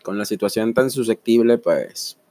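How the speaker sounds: hoarse, low sick voice from a cold; voice from beyond the grave. Real, not acted. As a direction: croak it out like a voice from the grave. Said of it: "disculpen la voz de ultratumba".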